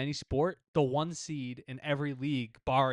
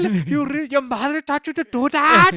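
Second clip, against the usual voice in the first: put-on high-pitched, very loud thick-accented yell; screaming heckler; 14 dB louder than usual. Fan yelling at a warming-up player, screaming. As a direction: keep bellowing at the top of your voice. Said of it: "he's, like, screaming at the top".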